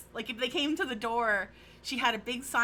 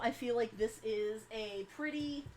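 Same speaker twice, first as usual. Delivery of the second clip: turned away, voice softer and distant; talking to the floor; 6 dB quieter than usual. Real, not acted. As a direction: speak down toward the floor. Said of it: "and I'm talking to the floor".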